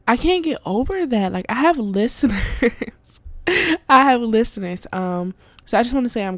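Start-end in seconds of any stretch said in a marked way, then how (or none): 1.3-3.2 laughing. Real, not acted. Amazed at having listeners. 3.5-4.9 excited. Real, not acted. Repeats in disbelief.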